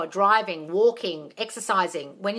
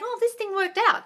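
imagined friend; 12 semitones higher than usual. Pretend. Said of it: "coming back to you and saying".

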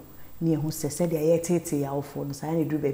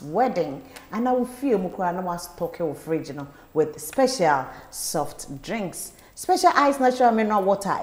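upbeat radio ad voice; ad read. Acted. Host reading a drinks sponsor ad, upbeat. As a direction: sell the drinks brand to listeners.

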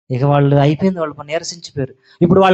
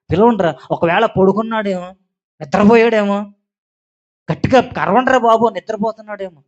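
sarcastic ridicule; 3 semitones higher than usual. Retold or imitated. Elijah ridicules the prophets, sarcastic mock urging. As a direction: taunt that their god is asleep. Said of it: "ఎటకారం చేసి ఎగతాళి చేస్తున్నాడు".

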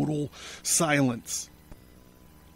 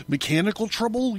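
high-pitched, incredulous outburst; outraged yell; 8 semitones higher than usual. A narrator's reading. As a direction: throw it back as an outraged question. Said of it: "yelled Mister Thompson".

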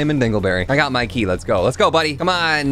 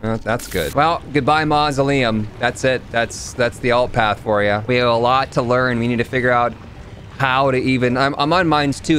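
imitating Jillian. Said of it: "Jillian's just like".

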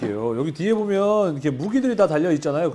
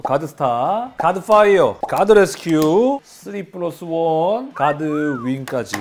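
hero roll call; 9 dB louder, slower than usual. Pretend. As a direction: present each robot like a show announcer. Roll call of toy team names. (만화 주제가처럼 힘차게 이름 부르기)

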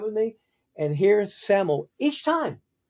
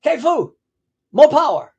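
loud, high barked director's order; Sammo Hung; 9 semitones higher, 10 dB louder than usual. Retold or imitated. Director shouting at a stunt fighter on set, loud urgent order. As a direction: shout the command, pitched right up. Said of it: "Sammo Hung looks at me and he goes".

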